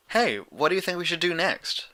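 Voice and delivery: put-on prim, precise young mare; Twilight's voice. A narrator's reading.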